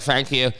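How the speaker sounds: "Thank you" starting with an F sound; "Thank you" with F in place of TH; accented thank you. Retold or imitated. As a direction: repeat "Thank you" as "fank you". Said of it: "'cause of my accent".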